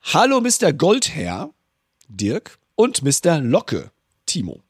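lightly put-on sultry reading; playful seductive reading; sexy voice. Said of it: "mit meiner sexy Stimme".

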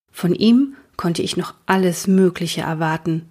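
put-on steady storytelling voice for children; story narration. A narrator's reading. Reader narrates Vincent's school story to young listeners, calm storytelling. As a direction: read the chapter like a story for kids. Reads a children's book aloud.

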